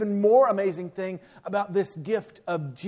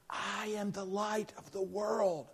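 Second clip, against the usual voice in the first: hushed, much softer prompt; stage whisper; 10 dB quieter than usual. Retold or imitated. Mother prompting her son from the front row, stage whisper. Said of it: "the stage whisper".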